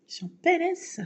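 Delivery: high, pitiful mock wail; mock pitiful whine. To the doctor, moaning she is in PLS, mock whine. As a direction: whimper it like a helpless patient. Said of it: "je parle comme ça".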